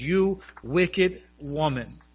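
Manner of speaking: slow, weighty rebuke; preacher's slow thundering rebuke, retold; stern rebuke. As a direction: lay each word down slowly like a verdict. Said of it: "in a tone that shook the room".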